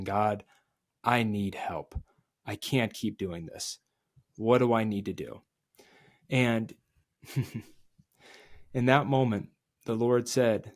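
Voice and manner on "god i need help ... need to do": desperate quiet prayer. Retold or imitated. Crying out to God in despair.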